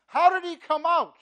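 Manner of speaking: high, loud, amazed asking; incredulous question. Retold or imitated. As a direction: throw the question out in disbelief. Preacher voicing Jesus' question.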